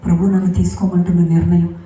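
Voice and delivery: firm, earnest speech into a mic; a resolved declaration to the crowd, lightly re-enacted; retold public address. Widow addresses the mourners at the funeral, a firm retold speech. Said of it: "mic తీసుకుని ఒకటే చెప్పాను".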